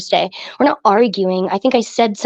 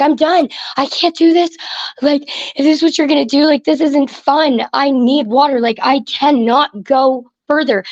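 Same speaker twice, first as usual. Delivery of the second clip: freaking out; 4 semitones higher than usual. Retold or imitated. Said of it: "I freaked out".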